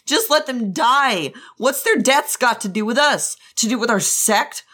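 high-pitched, grief-driven tirade; losing his mind. Acted. Jiang Cheng blaming Wei Wuxian for the deaths, losing his mind. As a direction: build from accusation to frantic high outburst. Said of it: "Jiang Cheng had lost his mind".

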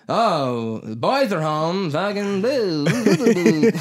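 high, hammed-up angry griping; mock rant building into loud, high gibberish; pissed-off mom. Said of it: "pissed off in a room going".

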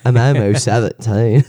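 deliberately bad put-on voice; awful character voice. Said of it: "It sounds awful".

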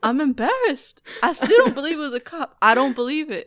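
lightly voiced, laughing a little; a hint of the gangster, half laughing; recited movie line. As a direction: recite the favorite line with glee. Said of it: "then he's like".

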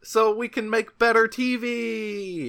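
high, slow over-keen agreement; hammed-up team spirit; mock enthusiasm. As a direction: drag it out like an overly eager employee. Mock keen staff in retold meeting.

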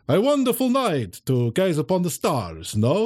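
vampire host. Acted. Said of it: "and I'm like".

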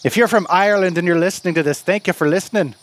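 lightly put-on Irish lilt; bad fake Irish accent. Game master apologizing to Irish listeners, in a fake Irish accent. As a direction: keep up the mock Irish brogue. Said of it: "how bad my fake accent is".

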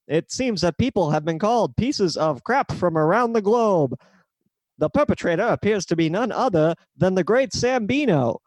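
a hint of bulletin announcer; old radio announcer. Shown as a demonstration. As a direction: read it like breaking news on the wireless. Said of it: "we're gonna do this the good old-fashioned way".

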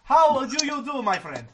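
lightly hammed-up posh host; put-on formal voice. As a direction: greet him like a stiff gentleman. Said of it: "do this voice for the whole night".

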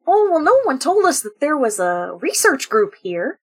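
lightly goofy dad voice; a hint of Goofy, cheerful and clueless; barely shifted Goofy dad; Goofy-ish dad. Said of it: "I'm starting to lean into Goofy".

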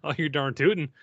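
mock Minnesotan agreement; playful Fargo accent; Upper Midwest accent. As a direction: agree like a folksy North Dakotan. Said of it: "North Dakota, Minnesota, and Southern Canada".

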